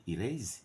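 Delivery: "erase" ending in a long buzzing z. Shown as a demonstration. Teacher showing students the British z sound. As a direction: buzz the z at the end of "erase". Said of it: "Z sound".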